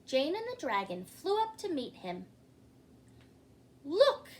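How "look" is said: laughing magician. A narrator's reading. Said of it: "laughed the magician".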